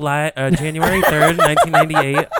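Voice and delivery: mocking Brian. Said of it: "Brian's like".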